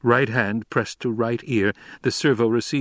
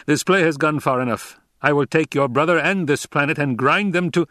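raised, commanding emperor voice; an angry emperor losing patience; cold rasping evil emperor; 4 semitones higher, 3 dB louder than usual. Acted. The Emperor speaks.

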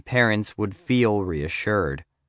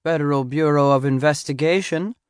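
higher-pitched grandmother on the switchboard; grandmotherly receptionist; 5 semitones higher than usual. A narrator's reading. Receptionist answering the FBI office phone, grandmotherly voice. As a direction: answer in a high grandmother's voice, lilting up at the end. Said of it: "sounded like someone's grandmother".

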